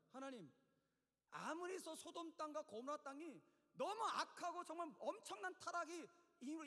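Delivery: raising the voice. Acted. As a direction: argue indignantly, building in force. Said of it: "막 소리를 막 높이는 거예요". (목소리를 높여 따지듯)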